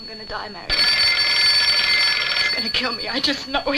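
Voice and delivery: hushed, frightened dread; terrified. Acted. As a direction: say it like death is already here. Terrified woman expects to die.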